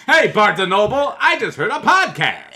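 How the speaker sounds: loud, high, laughing shout; excited yell. Retold or imitated. Mock customer yelling at store.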